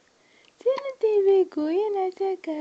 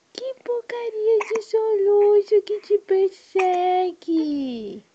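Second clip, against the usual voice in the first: louder, slow playful grumble at the hiccup; mock scolding; 3 semitones higher, 6 dB louder than usual. Mother telling off the baby's hiccups, mock angry. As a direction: pretend to be cross with the hiccups.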